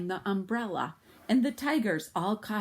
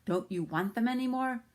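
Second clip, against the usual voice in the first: calling out; 6 semitones higher than usual. Acted. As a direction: call up to them in a teasing boy voice. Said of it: "jumped up and called".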